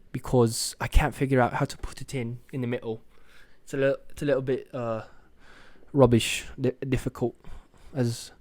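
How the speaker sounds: put-on British accent, halting; amateur British accent; attempted British accent. Shown as a demonstration. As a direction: have a go at sounding British, searching for words. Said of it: "That's my attempt at a British accent".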